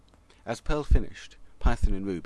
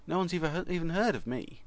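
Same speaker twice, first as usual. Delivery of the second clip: squeaky high voice; 8 semitones higher than usual. A narrator's reading. Snowball complains.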